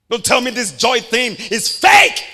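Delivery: slow and loud defiant; slow preaching shout. Real, not acted. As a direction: drive each word home. Preaching emphasis.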